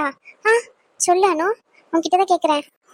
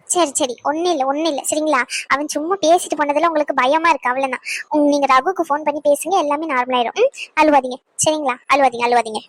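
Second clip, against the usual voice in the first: soothing; 5 semitones lower than usual. Acted. Comforting the crying girl.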